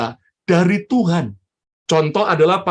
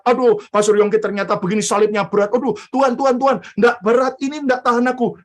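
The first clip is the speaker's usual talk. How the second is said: frantic complaint; 4 semitones higher, much faster than usual. Acted. Mother groans under pastor's cross.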